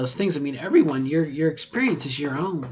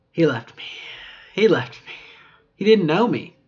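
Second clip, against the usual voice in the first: mock dismay; 3 semitones higher, 5 dB louder than usual. Real, not acted. Mock lament about rejection.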